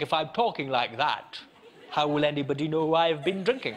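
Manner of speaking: over-pronounce every word to hide the drink; over-enunciating drunk. Acted. Drunk thinking nobody will know, over-enunciating. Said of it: "Do you ever over-enunciate?".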